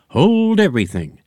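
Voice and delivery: high, loud clown cry; Boppo's voice. A narrator's reading. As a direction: bark the order as the villain clown. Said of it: "said Boppo".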